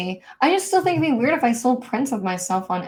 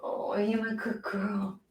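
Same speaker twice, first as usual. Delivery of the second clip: sweet nothings; 11 dB quieter than usual. Real, not acted. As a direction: breathe it softly to the dog. Cooing to her dog.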